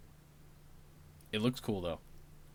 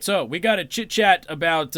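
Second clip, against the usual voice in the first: raised, louder sarcastic delivery; 4 semitones higher, 6 dB louder than usual. Real, not acted. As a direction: lay on the sarcasm, punching it out. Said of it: "you can sense my sarcasm".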